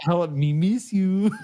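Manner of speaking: drawn-out movie quote, half laughing; quoted film mime. Retold or imitated. Friend quoting the mime from school days, playful drawn-out imitation. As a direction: stretch it out like an old in-joke. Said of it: "We used to say that".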